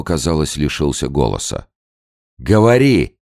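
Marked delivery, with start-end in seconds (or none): 2.4-3.2 loud, high urgent yell; shouting. A narrator's reading. Gao's son, being beaten, yells at his father. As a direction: scream at your father to talk. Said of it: "закричал на отца Гао сын".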